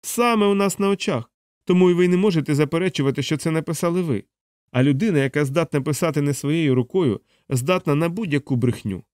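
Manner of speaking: high start, gradually settling; snide. Acted. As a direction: needle the accused, pitch easing down. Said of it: "єхидно заперечив майор".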